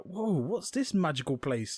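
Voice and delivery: slow, drawn-out awe; mock wonder. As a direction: marvel like a creature seeing a new world. Ants amazed at flying up.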